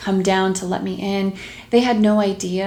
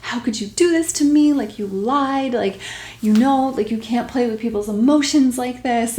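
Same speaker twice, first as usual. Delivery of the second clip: higher, pleading, half-tearful; crying plea; 4 semitones higher than usual. Retold or imitated. Leaving a tearful voicemail for the therapist, pleading and higher. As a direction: retell the tearful voicemail, pitched up. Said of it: "I'm literally crying".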